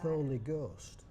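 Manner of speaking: "Thorny Ghost" with th before the vowel, slow; drawn out slowly, th for t; Holmfirth th. Shown as a demonstration. Dialect chairman reading Holmfirth dialect, slow th. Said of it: "they pronounce it as th".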